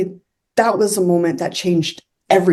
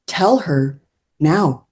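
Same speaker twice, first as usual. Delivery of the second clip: drawn-out, deliberate instruction; slow command; 2 semitones lower, much slower than usual. Retold or imitated. Unseen voice orders her to tell the girl, slow command. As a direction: spell it out slowly, word by word.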